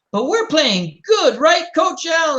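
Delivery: put-on high, slow kid whine; whiny kids. Kids pleading with their coach, high whiny voices.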